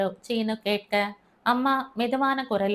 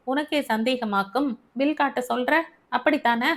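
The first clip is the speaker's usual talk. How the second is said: husband snaps back, mildly offended; angry husband; 3 semitones higher than usual. Acted. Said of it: "என்று கோபமாக பேசினவர்".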